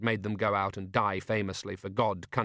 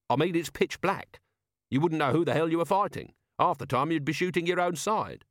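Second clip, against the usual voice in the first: higher, protesting commander; exasperated Vimes; 6 semitones higher than usual. Acted. Vimes objecting to fighting in the dark, exasperated. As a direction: protest the plan with some exasperation.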